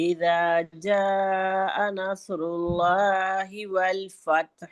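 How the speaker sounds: measured Quran recitation with long held vowels; slow model recitation. Shown as a demonstration. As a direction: recite the verse slowly for pupils to copy. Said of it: "آیت آواز آئے گی". (ٹھہر ٹھہر کر تلاوت)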